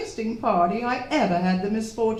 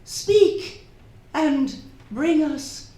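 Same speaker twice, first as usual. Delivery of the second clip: séance invocation; 2 semitones lower, slower than usual. Acted. Hostess invoking spirit at séance.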